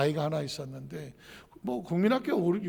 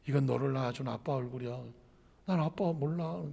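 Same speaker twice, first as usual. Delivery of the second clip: soft mother; 4 semitones lower, 9 dB quieter than usual. Retold or imitated.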